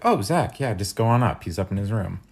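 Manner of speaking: bright, high, loud friendly call; roommate's voice. Retold or imitated. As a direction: voice the cheery roommate waving him up.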